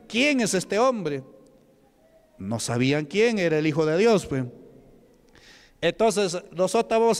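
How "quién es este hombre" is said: slow, higher mock demon cry; hint of a demon's wail. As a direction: stretch it out like a spirit being cast out. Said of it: "los demonios salen gritando".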